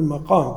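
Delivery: مقام said "maqām", with a after the mim; correct fatha reading. Shown as a demonstration. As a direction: say "maqām", opening on "ma". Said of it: "نقول".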